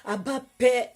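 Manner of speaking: pleading prayer voice; fervent prayer. Acted. Preacher leading the listeners in fervent prayer. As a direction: cry out to the Father.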